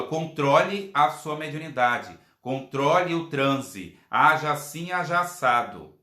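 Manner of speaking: slow, firm and steady; firm command. Shown as a demonstration. Leader firmly tells the medium to control the trance, slow and steady. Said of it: "com firmeza".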